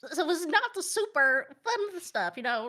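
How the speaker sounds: lightly voiced old grandma; a hint of a reminiscing grandma. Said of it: "I gotta put on my grandma voice".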